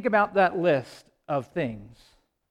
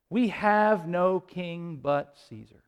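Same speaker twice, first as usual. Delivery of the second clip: slow, deliberate quote of the crowd; subdued retold cry; 3 semitones lower, 4 dB quieter, slower than usual. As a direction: spell out the crowd's cry word by word, slowly. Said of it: "And then they cry out".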